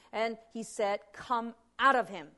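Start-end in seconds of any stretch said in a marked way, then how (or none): 1.1-2.3 firm, understated command. Acted. Jesus commands demons out of the man, firmly. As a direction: order the demon out with authority. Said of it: "commanding the demons out of the man".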